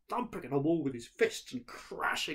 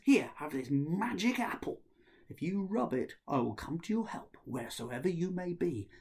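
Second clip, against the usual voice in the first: brother's voice; 6 semitones higher than usual. Acted.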